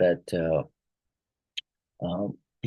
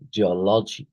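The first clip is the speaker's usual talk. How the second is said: "geology" with the stress on OL; syllable stress demo. Shown as a demonstration. Teacher answering a stress question, stressed OL in "geology". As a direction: lean on the second syllable of "geology". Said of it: "the stress is on the".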